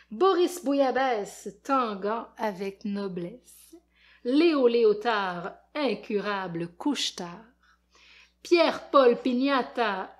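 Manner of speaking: put-on expressive read-aloud for kids; lecture d'album. A narrator's reading. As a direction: tell it like a lively storyteller to children. Lit un album aux enfants. (lecture animée pour enfants)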